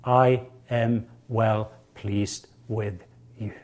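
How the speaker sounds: slow and soft fatherly approval; a hint of a loving father, slow; tender voice of the Father. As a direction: speak it gently as God the Father. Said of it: "the Father's approval".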